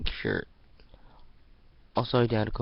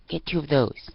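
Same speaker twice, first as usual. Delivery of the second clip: tiny screech; 5 semitones higher, 6 dB louder than usual. Acted. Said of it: "Her tiny voice screeched".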